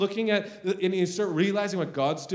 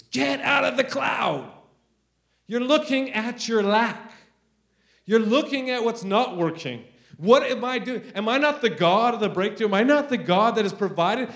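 raised, emphatic preacher's rebuke; booming rebuke; 4 semitones higher, 3 dB louder than usual. Retold or imitated. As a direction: imitate God calling someone sternly to account. Acts out God rebuking him in car.

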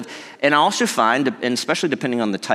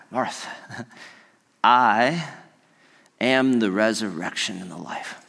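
tender Jesus; 2 semitones lower, slower than usual. Retold or imitated. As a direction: speak to Martha gently, like a grieving friend. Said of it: "He says".

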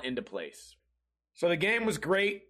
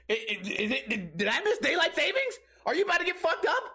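high-pitched, laughing mock challenge; mock taunting; 11 semitones higher than usual. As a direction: taunt him with rising comic disbelief. Mock threat in retold quarrel.

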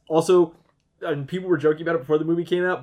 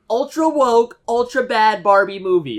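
high, loud, hammed-up outrage; mock Ted Cruz ranting on Fox News, high and loud; 8 semitones higher, 8 dB louder than usual. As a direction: parody a blustering senator, pitched way up. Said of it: "Ted Cruz went on Fox News and was like".

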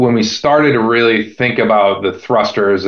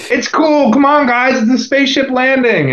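high playful voice; 14 semitones higher than usual. Retold or imitated. Playfully defending his spaceship noise.

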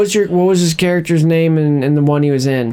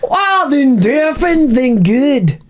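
high flustered voice; 9 semitones higher, much slower than usual. Pretend. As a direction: squeak it out in a panic. Mock flustered reply.

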